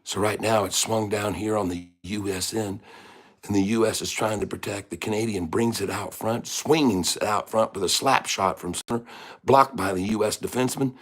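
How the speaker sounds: restrained live sports call; hockey play-by-play. Acted. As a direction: follow the puck, call each move. Calls a hockey game.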